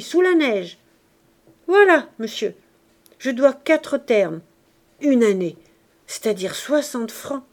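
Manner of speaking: pleading, swelling to loud pathos; milk his misery for money; a con man's tearful sob story; whining beggar. Acted. Jondrette begging pathetically.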